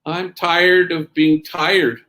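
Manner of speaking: slow, weary sadness, mildly voiced; great sadness. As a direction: retell a tired man's sad admission. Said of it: "looked at me with a great sadness".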